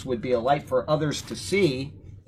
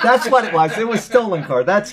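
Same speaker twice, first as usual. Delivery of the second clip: laughing it out, high and loud; 8 semitones higher, 9 dB louder than usual. Real, not acted. Host agreeing with his co-host through real laughter. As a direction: still chuckling while agreeing.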